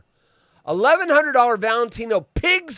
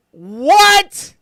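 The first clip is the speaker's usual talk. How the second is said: shocked what; 9 semitones higher, 10 dB louder than usual. Real, not acted. Shocked at pig hoof shoes.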